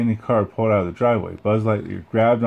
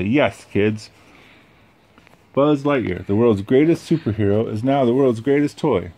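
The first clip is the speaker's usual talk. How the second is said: TV ad announcer; 3 semitones higher, 3 dB louder than usual. Acted. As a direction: sell it to the kids.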